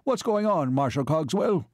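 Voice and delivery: high-pitched, shrill questioning. A narrator's reading. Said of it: "Baron Zwerdling shrilled".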